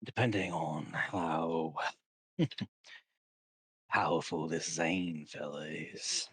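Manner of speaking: lightly voiced schemer, taking his time; sly sword character. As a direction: draw it out with deliberate pauses. Game master voices a character.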